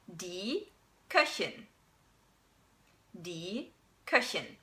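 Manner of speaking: Köchin with a soft hissed ch; Köchin with ich sound; German Köchin. Shown as a demonstration. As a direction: hiss the ch in Köchin.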